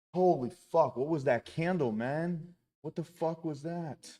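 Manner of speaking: shocked disbelief. Real, not acted. Shocked by a sudden candle.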